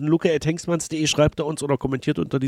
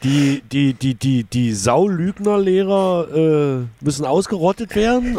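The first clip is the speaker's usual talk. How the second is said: raised, drawn-out sarcastic suggestions; higher-pitched, slow mocking delivery; mock slogans; 4 semitones higher, slower than usual. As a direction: reel off outrageous options in disbelief, pitched high. Invents absurd rival motto options in mockery.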